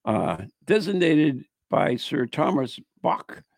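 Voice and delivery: measured read-aloud narration; ghost story read aloud. Acted. Host reading a Christmas Eve ghost tale, narrating. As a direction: read it out as a local legend.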